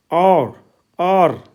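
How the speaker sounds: "और" said as a long open "aar"; teacher showing the आ sound in "और"; vowel as Hindi आ. Shown as a demonstration. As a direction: model "और" as a drawn-out AAR, falling at the end. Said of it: "आ की ध्वनि में है".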